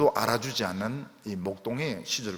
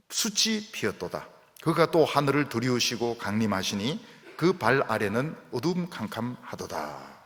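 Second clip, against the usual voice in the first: scripture reading. Acted. Reads the psalm aloud.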